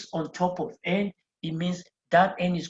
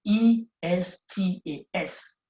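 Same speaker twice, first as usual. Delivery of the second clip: slow letter-by-letter spelling; teacher spelling out a word slowly; spelled out slowly; 2 semitones higher, slower than usual. Shown as a demonstration. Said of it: "the ending has an S".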